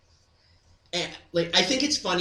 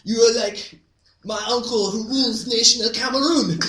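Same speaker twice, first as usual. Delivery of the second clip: exchange student voice; 6 semitones higher, 5 dB louder than usual. Retold or imitated. Exchange student addressing Clyde.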